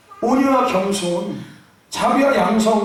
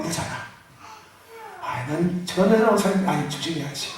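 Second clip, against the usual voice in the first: normal talking voice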